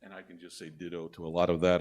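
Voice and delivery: muffled behind a face mask; through a face mask. Real, not acted. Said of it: "with the mask on".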